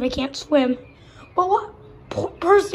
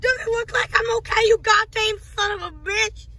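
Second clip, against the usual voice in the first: angry retort; 5 semitones higher than usual. Acted. Hurt, angry at friend.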